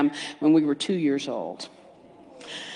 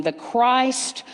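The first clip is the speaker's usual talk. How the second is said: slow affirmation; 2 semitones lower, much slower than usual. Shown as a demonstration. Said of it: "affirm something with me".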